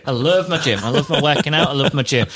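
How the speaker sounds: retold in mock seriousness, even pitch; earnest boast. Imitating the groom boasting to his mates, deadpan earnest. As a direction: repeat it with deadpan conviction. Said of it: "Like, really serious".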